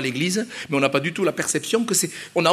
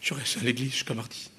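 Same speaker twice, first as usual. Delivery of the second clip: much softer, dropping to a near whisper; mock misunderstanding; 7 semitones lower, 12 dB quieter than usual. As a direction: mumble it like a lazy churchgoer who takes it literally. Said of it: "ça veut pas dire".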